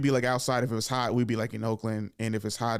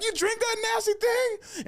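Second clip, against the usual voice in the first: much higher, slow disgusted question; mock disgusted kid; slower than usual. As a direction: pull a face and ask in disgust. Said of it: "I was like".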